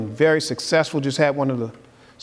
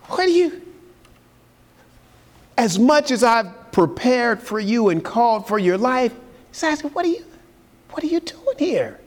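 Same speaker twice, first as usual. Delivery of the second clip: 1 pleading high question; 6 semitones higher than usual. Acted. Preacher voicing God's pointed question.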